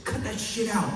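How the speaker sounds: high sharp mock scold; mean snap. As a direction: cut him off harshly. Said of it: "He was so mean".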